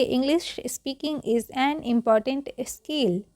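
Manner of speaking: word by word, slowly for repetition; measured teacher's model reading; slow read-along. Shown as a demonstration. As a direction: read it out slowly so learners can follow. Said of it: "repeat करेंगे".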